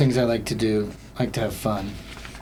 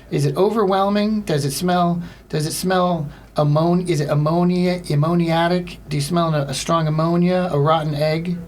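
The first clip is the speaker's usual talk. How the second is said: probing hotline operator; 5 semitones higher than usual. Acted. Acts over-inquisitive hotline operator.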